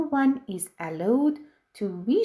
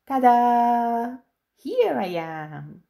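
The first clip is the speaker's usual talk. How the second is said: excited; 3 dB louder than usual. Acted. Genie bursts out of lamp.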